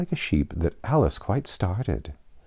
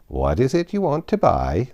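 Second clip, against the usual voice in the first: lightly voiced old sheep; old sheep shopkeeper; 5 semitones higher, 3 dB louder than usual. Old sheep asking Alice, lightly voiced. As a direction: ask like a shopkeeper.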